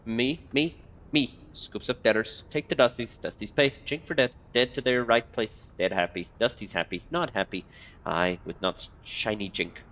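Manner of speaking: lightly voiced muttering old beggar; twitchy beggar. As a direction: mutter like a half-mad corpse picker.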